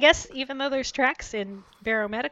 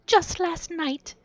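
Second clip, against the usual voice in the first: slow, higher, tearful and faltering; broken whisper; 9 semitones higher, 5 dB louder, much slower than usual. Acted. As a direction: voice giving out to sobs. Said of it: "she whispered brokenly".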